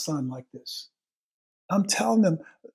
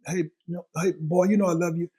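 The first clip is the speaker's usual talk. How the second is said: breezy mock. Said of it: "Not that stuff that we just say so freely".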